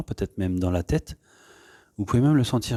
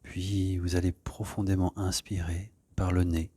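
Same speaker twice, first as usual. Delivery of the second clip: calm, soft guiding voice with long pauses; unhurried yoga-class settling-in voice; guided meditation; 4 dB quieter than usual. Real, not acted. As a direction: ease them gently into stillness. Leads an opening meditation.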